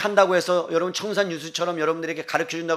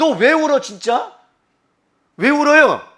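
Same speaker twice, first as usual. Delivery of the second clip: play-acted fed-up, irritated, annoyed scolding outburst; 9 semitones higher, 8 dB louder than usual. Retelling asking a crying student why they cry: imitating being annoyed. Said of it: "열받는 거예요 제가".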